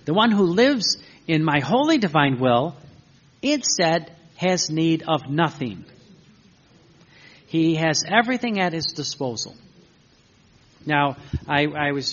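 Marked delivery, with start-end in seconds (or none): 0.1-9.6 weighty preacher's reading; emphatic proclamation. Acted. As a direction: proclaim it firmly, pausing between phrases. Proclaims God's words from the book.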